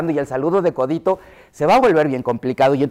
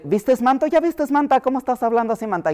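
mock the chilango slang of Mexico City, pitched up; Mexico City accent; 9 semitones higher than usual. Speaker from Mexico City imitating local slang, high sing-song Mexico City accent. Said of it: "yo que soy de la Ciudad de México".

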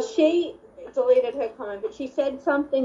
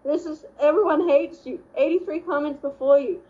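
mock indignant; 6 semitones higher than usual. Mocking imagined reply.

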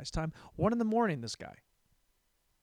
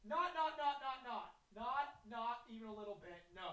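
tiny, high, very soft voice; spiteful little inner voice, barely audible; little voice in head; 8 semitones higher, 12 dB quieter than usual. Acted. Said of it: "That's a little guy in the back of my head".

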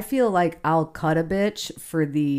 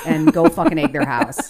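laughing; 6 dB louder than usual. Real, not acted. Joking about stale candy.

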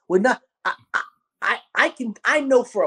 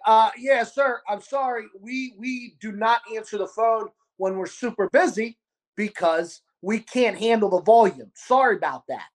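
polite apology; 4 semitones higher than usual. Retold or imitated. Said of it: "It's kinda how I said it".

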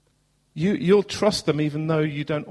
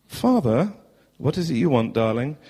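put-on posh southern accent. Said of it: "posh southern accent".

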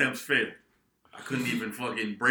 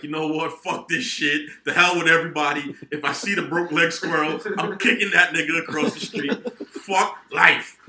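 acted outburst, louder and higher; fed-up rant; 4 semitones higher, 6 dB louder than usual. Telling how he fell out the window, fed-up rant. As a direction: throw a hammed-up tantrum at the whole world.

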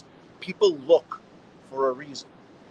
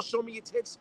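whispered catcall; 4 semitones higher, 8 dB quieter than usual. Pretend. Jokey catcall he often says.

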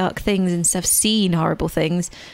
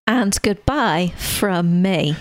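mock sign-off; 2 semitones lower, much slower than usual. Echoes the slow sign-off.

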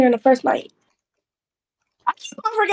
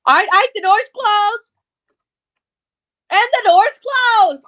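slow drawn-out; 7 semitones higher than usual. Pretend. Slow drawn-out repeat of phrase.

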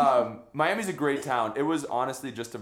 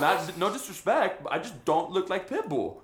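laughing protest; 7 semitones higher, 3 dB louder than usual. Retold or imitated. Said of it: "And I go".

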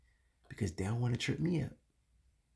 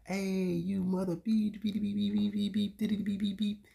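high, loud, slow mock cursing, beeped out; hammed-up coworker swearing, every word bleeped; 10 semitones higher, 3 dB louder than usual. Coworkers greeting him at work with a loud, high, slow string of bleeped curses.

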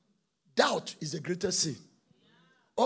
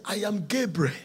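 angel's declaration; 4 dB louder than usual. Acted. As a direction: announce your rank with weight. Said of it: "the angel answered and said".

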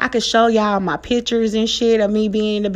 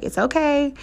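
higher, gentle comforting voice; retold reassurance; 5 semitones higher than usual. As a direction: soothe a child as you retell it. Mom comforting her daughter, retold.

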